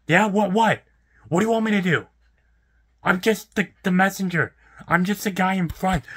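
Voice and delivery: high-pitched, frustrated pleading; exasperated protest. Real, not acted. Front-counter worker protesting to an impatient customer, exasperated. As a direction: protest that it's out of your hands.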